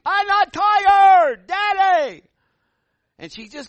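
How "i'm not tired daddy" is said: put-on high, loud, slow little girl yelling back; child's shout. Four-year-old refusing bedtime, shouting high at her parents. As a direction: stretch out a defiant child's protest.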